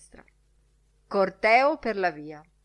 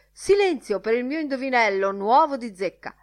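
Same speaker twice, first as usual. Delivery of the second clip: high, loud call for silence; loud announcement; 5 semitones higher, 6 dB louder than usual. A narrator's reading. Lenihan announcing his new riddle to the room, high and loud. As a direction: call for attention, raised and loud.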